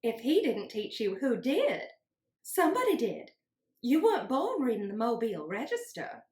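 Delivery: stern teacher voice. Acted. Teacher questioning Scout.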